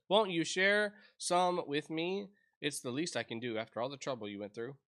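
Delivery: lively game dialogue read. Acted. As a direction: read the text boxes aloud with life. Voices game dialogue boxes.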